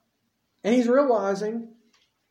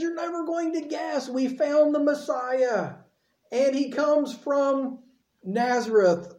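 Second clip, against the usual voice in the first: excited news; 6 semitones higher, slower than usual. Retold or imitated. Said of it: "goes to Nathanael and says".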